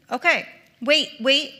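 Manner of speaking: loud, high "wait, wait"; urgent halt. Real, not acted. Speaker stopping a slide shown too early, loud urgent call.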